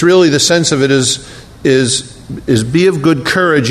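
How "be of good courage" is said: urging, a little pushier; exhorting. Shown as a demonstration. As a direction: push him on with it. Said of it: "You can say that to somebody exhorting them".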